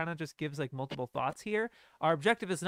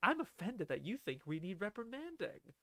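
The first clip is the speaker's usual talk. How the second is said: mock condescending, talking down, stated outright; 3 semitones higher, 7 dB quieter than usual. Quoting a character's line from the scene, imitating a condescending tone. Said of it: "she says it so condescendingly".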